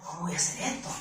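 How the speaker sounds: soft, low anxious question; quiet worried question. Pretend. Scared worker asking herself quietly, worried. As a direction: ask it under your breath. Fearful inner voice.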